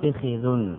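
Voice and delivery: "فخذ" as fikhidhun, i on fa and kha; "فخذ" opened out as fi-khi-dhun; variant fikhidh. Shown as a demonstration. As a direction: say "فخذ" with two kasras. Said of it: "بكسر الفاء".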